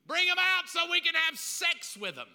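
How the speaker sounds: mob shout. Acted. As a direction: bellow it like an angry crowd.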